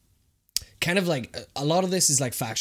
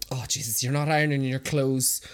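nagging mum; 4 semitones higher, 4 dB louder than usual. Retold or imitated. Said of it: "it would just be like".

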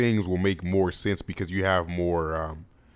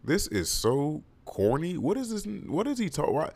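mocking disdain; 7 semitones higher, 4 dB quieter than usual. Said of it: "I was like".

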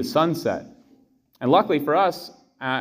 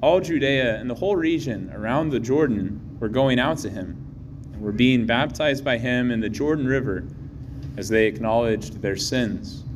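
Gospel reading. Real, not acted.

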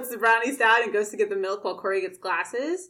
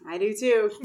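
exasperated; 3 dB louder than usual. Retold or imitated. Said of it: "Like, extremely exasperated".

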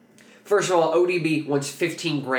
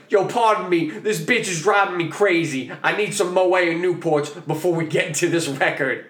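raised, worked-up mock rant; agitated demand; 4 semitones higher than usual. Rapper demanding champagne from studio staff, agitated imitation. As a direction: imitate a drunk star making demands.

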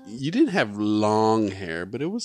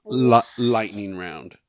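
whisper yelling; 7 dB louder, much slower than usual. Acted. Announcing a game.

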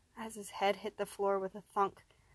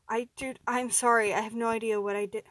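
urgent apology; 7 dB louder than usual. Acted. Apologizing after punching his friend.

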